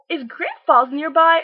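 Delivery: loud, high, slow mock tourist question; clueless tourist. Tourist asking for the falls beside the window, loud, high mock. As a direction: ask it like a dopey tourist. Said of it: "Crazy tourists".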